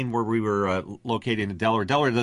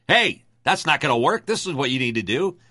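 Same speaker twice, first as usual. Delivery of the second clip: Paul Harvey; 5 semitones higher, 4 dB louder than usual. Retold or imitated. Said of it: "I would sort of channel Paul Harvey".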